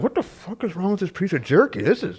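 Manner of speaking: re-enacted confusion at a bad bite; mock bewilderment. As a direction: act out puzzled disgust while chewing. Acts out biting a packet.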